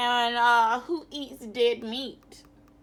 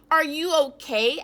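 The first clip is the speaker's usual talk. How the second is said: caring question; 4 semitones higher, 6 dB louder than usual. Acted. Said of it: "asked Jim".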